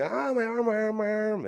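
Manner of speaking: high-pitched mock yell, imitating a hurt kid; mock scream. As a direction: wail it high like a kid screaming over a broken arm. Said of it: "And I'm screaming".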